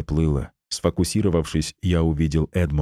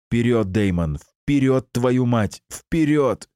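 urgent shout; 5 semitones higher, slower than usual. Acted. Shouting urging in battle.

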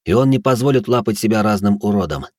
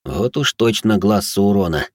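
stunned; slower than usual. Acted. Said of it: "ошарашенно подумал я".

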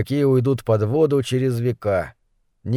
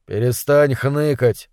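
slow, calm command. Acted. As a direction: say it slowly and calmly. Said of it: "спокойно сказал Зобер".

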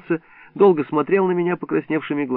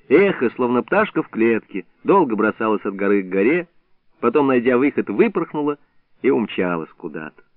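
ordinary delivery

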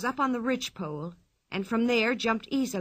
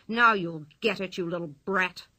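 angry policeman; 3 semitones lower than usual. Acted. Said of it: "pounced on Pippi and cried".

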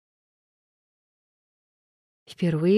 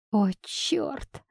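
sighed exclamation; 6 semitones higher, 5 dB quieter than usual. Acted. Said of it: "вздохнула она".

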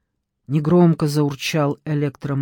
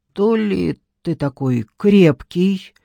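медленно, протяжно, в раздумье; протянуть фразу, размышляя вслух; задумчиво протянула; 2 semitones higher, slower than usual. A narrator's reading. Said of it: "задумчиво протянула женщина". (задумчивая тянущая интонация)

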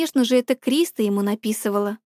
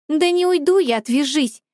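snapped refusal; 3 semitones higher than usual. Acted. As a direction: snap it at her to let go. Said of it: "рявкнула я".

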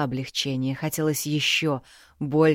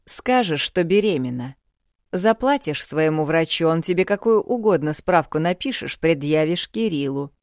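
scheming father; 5 dB louder than usual. Acted.

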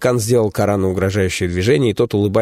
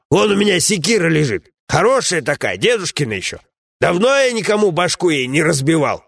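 a lightly raised, scolding comrade's voice; gruff dwarf companion; 9 semitones higher than usual. Acted. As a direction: grumble at a foolish friend, voiced a bit higher.

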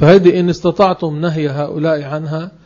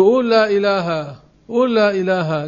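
higher, repeated "قول لا إله" cut off after "إله"; wrong way to teach; 4 semitones higher than usual. Retold or imitated. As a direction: mimic the careless teacher, stopping at "إله". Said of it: "مثل بعض الناس ... يقولوا له". ("قول لا إله" أعلى ومقطوعة عند "إله")

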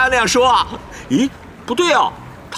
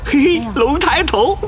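gloating snicker; 2 semitones higher, much slower than usual. Acted. Gloating over the rival's embarrassment.

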